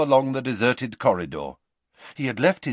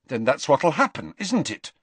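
understated fierce challenge, a little higher; fiercely; 5 semitones higher than usual. Acted. Harry challenging McGonagall over the funeral, understatedly fierce. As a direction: press the point with mild fierceness. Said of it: "said Harry fiercely".

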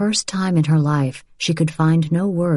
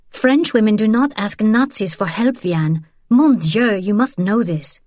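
higher, indignant sister's rebuke; Isabel, scolding; 5 semitones higher than usual. Acted. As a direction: scold her with pride and scorn.

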